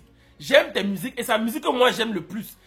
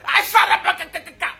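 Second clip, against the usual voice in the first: playful babbled tongues with laughter; babbling mock glossolalia, laughing; mock speaking in tongues; 6 semitones higher than usual. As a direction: mimic a pastor overcome by the Spirit.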